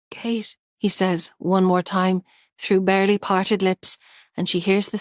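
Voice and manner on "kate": faint. Acted. Barely parted lips.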